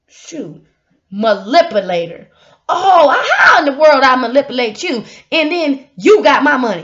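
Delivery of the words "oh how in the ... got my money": indignant outburst. Real, not acted. Indignant rant at accuser.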